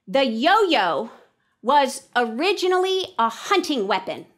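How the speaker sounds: deliberate, projected read-aloud; loud, emphatic opening then pause. Shown as a demonstration. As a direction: read it out to the class, phrase by phrase. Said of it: "I'm gonna read aloud".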